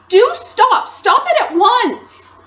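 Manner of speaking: put-on loud, exasperated little-girl telling-off; bawling scolding. A narrator's reading. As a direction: scold him loudly, pitch leaping high. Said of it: "bawled Lucy in his ear".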